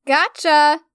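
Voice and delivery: loud, gleeful shout; triumphant shout. A narrator's reading. Stella shouts in triumph as she runs off. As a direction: crow it as you run off. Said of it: "she shouted".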